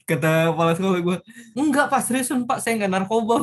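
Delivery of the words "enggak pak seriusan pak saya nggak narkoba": pleading denial. Retold or imitated. Student denies drugs to principal.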